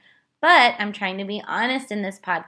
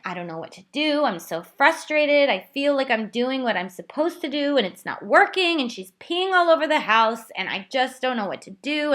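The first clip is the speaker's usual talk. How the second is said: higher, strained, near tears; retold tearful plea; 4 semitones higher than usual. Mother retelling breaking down to husband, tearful and higher. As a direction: pour out the frustration to her husband, close to crying. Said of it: "and I'm crying".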